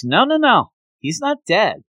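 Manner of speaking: mock insist he can't be dead; a retold burst of denial; insistent denial. She insists he is not dead.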